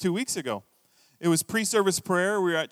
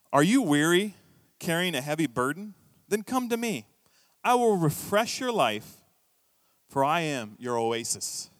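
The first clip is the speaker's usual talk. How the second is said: tender scripture reading. Shown as a demonstration. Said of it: "That's what Jesus said".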